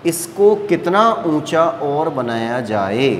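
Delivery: slow, drawn-out teacher's phrasing; slow, careful restating. Real, not acted. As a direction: restate the question slowly for students. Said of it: "धीरे धीरे बोल रहा हूँ". (धीरे-धीरे समझाते हुए)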